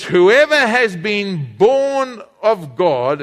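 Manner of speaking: slow, deliberate Bible reading; slow scripture reading. Shown as a demonstration. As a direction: read it out slowly to the church. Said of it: "Then he says".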